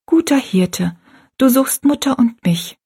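etwas lauter, kindliches Gebet; leicht erhoben zum Hirten beten; laut gebetet. Acted. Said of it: "sagte laut". (Rosalie betet kniend für die alte Frau, etwas lauter)

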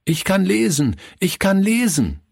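high, proud calling out to everyone; a boy shouting his news to the whole house; child calling out happily. A narrator's reading. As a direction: call it out to everyone, beaming. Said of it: "rief er jedem zu".

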